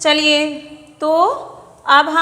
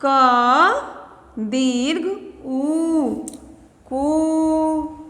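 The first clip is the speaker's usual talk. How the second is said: crawling, drawn-out क दीर्घ उ; very slow spelling out; much slower than usual. Shown as a demonstration. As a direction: stretch every syllable for the children. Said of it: "तो ये क्या हो गया".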